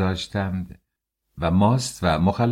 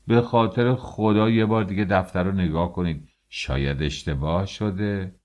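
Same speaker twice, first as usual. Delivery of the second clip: pleading. Acted. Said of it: "با التماس گفت".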